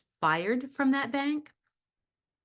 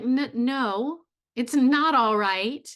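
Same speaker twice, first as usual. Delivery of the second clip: louder, slow, leaning on "not"; firm refusal; 3 semitones higher, 6 dB louder, slower than usual. Retold or imitated. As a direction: put your foot down on "not". Nora refusing Torvald, retold.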